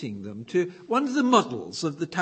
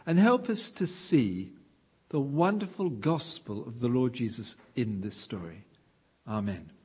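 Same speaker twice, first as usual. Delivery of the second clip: prayer; 2 semitones lower than usual. Acted. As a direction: pray reverently to God. Leads a prayer.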